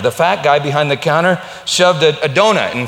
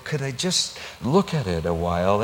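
soft plea; 4 semitones lower, 5 dB quieter than usual. Retold or imitated. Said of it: "said softly".

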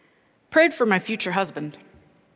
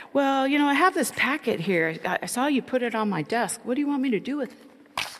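higher, hesitant mock of Ted; a timid man fumbling for words, pitched up; imitating unsure Ted; 7 semitones higher than usual. Ted asks her about the fire drill packet, hesitant high mock voice.

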